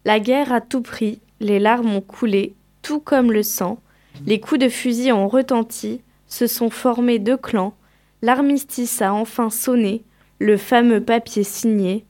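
measured poem reading, line by line; poem recitation. Acted. Student reads a war poem on a class show, measured recitation. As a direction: recite it in even, separated phrases.

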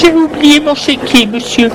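high, embarrassed woman's voice. Acted. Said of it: "gênée".

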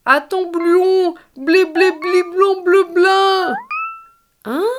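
high, slow garbled cuddly-toy voice; muffled toy voice. A narrator's reading. Cuddly toy Berck answers his friends through the bath foam.

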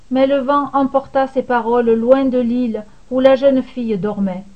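ordinary delivery, nothing marked

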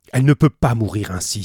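s'écrie plus fort et plus vite; lance-le avec un élan de courage; exclamation. Acted. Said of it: "s'écria-t-il". (Penellan s'écrie pour sauver la jeune fille)

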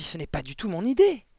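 mildly dismayed exclamation; protesting cry. A narrator's reading. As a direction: protest innocence urgently. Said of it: "s'écria mademoiselle Candy".

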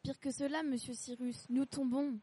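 urgent, lively acted calls; alarmed exchange. Balloon passengers warn each other they are falling, mild alarm. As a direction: call out as the danger grows.

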